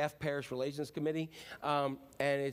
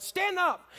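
high, loud raging roar of stand up; Hulk-like rage; 14 semitones higher, 6 dB louder than usual. Retold or imitated. Pastor reliving his rage in the meeting, roaring like the Hulk. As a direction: explode like the Hulk. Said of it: "I'm like the Hulk".

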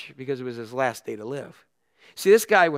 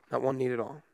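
repeated much softer and lower, sinking; quiet repeat; 4 semitones lower, 9 dB quieter than usual. Shown as a demonstration. Pastor lets the repeat fade for the congregation, hushed. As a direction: let the phrase fall away to a hush.

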